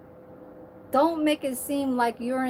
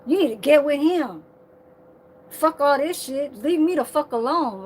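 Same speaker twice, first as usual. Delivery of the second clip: mock angry brush-off, slightly raised; imitated attitude; 3 semitones higher, 5 dB louder than usual. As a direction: imitate someone fed up and dismissive. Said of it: "That's the attitude that you have".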